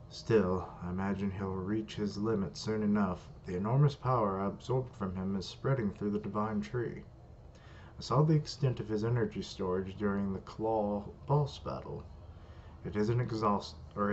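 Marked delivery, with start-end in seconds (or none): 0.1-12.0 lightly British villain reading; slight British accent. Acted. Villain weighing up how to defeat Shigio, slight British accent. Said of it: "I gave him a British accent or a slight British accent". 14.0-14.1 lightly British villain reading; slight British accent. Acted. Villain weighing up how to defeat Shigio, slight British accent. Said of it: "I gave him a British accent or a slight British accent".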